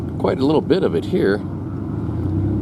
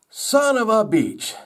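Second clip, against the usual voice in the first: high, drawn-out mock outcry; exclaiming beech tree; 14 semitones higher than usual. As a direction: cry it out slowly, high-pitched, as a joke character.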